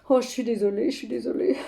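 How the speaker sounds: sheepish apology. Acted. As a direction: back down and apologise quietly. S'excuse d'avoir choqué son amie. (excuses penaudes, à voix basse)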